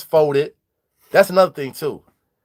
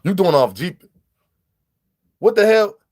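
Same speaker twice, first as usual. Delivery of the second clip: surprised; 4 semitones higher, 4 dB louder than usual. Retold or imitated. Shocked reaction retold.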